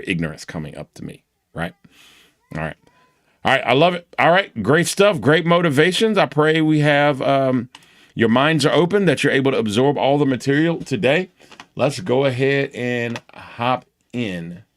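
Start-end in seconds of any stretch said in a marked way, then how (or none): 3.4-14.6 raised, loud rallying teacher voice; upbeat class kickoff. Real, not acted. Teacher rallying students to start today's material, upbeat and loud. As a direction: pump up the room, high and loud.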